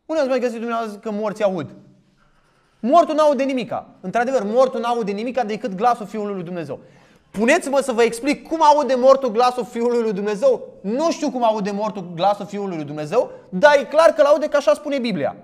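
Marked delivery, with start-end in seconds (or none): none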